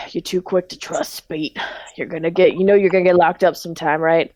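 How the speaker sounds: weary warning, lightly southern; exasperated partner with a hint of southern accent. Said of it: "everyone in this grocery store have a southern accent".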